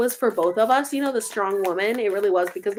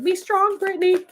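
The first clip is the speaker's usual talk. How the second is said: imitating the interviewer; 9 semitones higher than usual. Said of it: "She's like".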